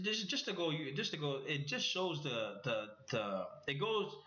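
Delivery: rushed, stumbling over restarts; hurried false starts, tangled and repeated; speaking too fast. Real, not acted. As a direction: trip over your words in a hurry. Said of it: "definitely speaking too fast".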